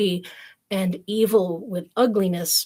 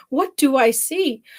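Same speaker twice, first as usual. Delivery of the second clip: mother's shock; 5 semitones higher, 4 dB louder than usual. Acted. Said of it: "cried the mother".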